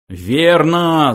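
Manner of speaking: high, loud exclamation; shout. A narrator's reading. Philosopher backing his companion, shouting. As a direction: shout in agreement. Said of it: "заорал Врумфондель".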